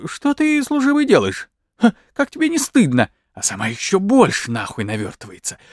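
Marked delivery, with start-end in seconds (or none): 0.1-3.1 a high, lightly voiced old woman roused from sleep; drowsy granny scolding the soldier; mock-shocked old woman's voice; sleepy old woman. A narrator's reading. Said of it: "говорит с просонок".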